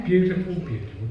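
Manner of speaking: fading admiration. Real, not acted. Repeats praise, second softer.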